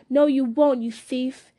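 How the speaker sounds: breathless, fearful snarl; panting. Acted. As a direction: spit it out between breaths. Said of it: "he panted".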